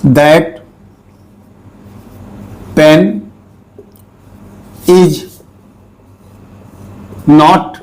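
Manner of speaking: each word spoken separately and slowly; slow dictation. Shown as a demonstration. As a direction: read out word by word with long pauses. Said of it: "देखिए".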